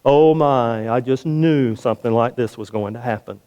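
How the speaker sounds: a hint of a mopey cartoon hyena, voice sinking; drudgery. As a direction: sigh it out like a gloomy hyena. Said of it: "kind of drudgery".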